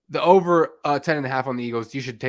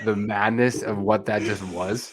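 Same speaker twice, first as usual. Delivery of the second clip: laughing. Real, not acted. Reacting to absurd prediction.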